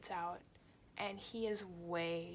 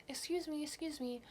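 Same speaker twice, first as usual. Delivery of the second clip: imitating drunk stranger; 8 semitones higher than usual. Drunk stranger knocking on door.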